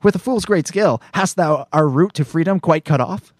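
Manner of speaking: a haughty Shakespearean princess scolding a fool; lightly played royal indignation; Princess Leia. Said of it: "Princess Leia says".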